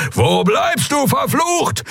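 high, cursing demand; angry shout. Acted. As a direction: snap at her for being late. Captain angrily calls for Endriel.

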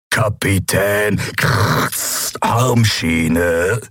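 the Shadow Emperor threatening Captain Nagun; menacing emperor. A narrator's reading. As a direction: draw out every threat icily.

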